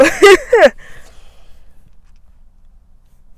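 high, loud burst of laughter; laughing it off; nervous loud laughter. Real, not acted. Laughing through a scary memory.

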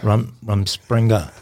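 slow, light mock Amish accent on Rum Springer. The speaker teasing Woody by repeating the word in a faint mock Amish accent. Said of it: "now he's doing an Amish accent".

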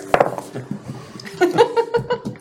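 high-pitched laugh. Acted. Robot hologram laughing.

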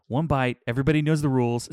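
imitated New England accent. Quoting a pizza reviewer's rules, imitated New England accent. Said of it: "he's kinda got this thick accent".

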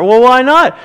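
a coworker pushing back, surprised; mock puzzled friend. Coworker questioning the changed believer, mock puzzled. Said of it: "you're gonna say".

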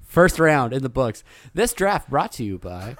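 draft announcer. Pretend. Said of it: "No, I'm just kidding".

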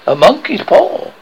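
high-pitched, loud exclamation; wild cry. A narrator's reading. Wife crying out to her sleeping husband about the paw, wildly. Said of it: "she cried wildly".

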